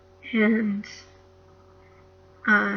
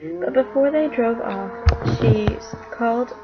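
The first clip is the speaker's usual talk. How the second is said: put-on reading a children's book aloud, a bit louder; story reading; 4 dB louder than usual. A narrator's reading. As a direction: read it like a bedtime chapter to the household. Reads Narnia to family.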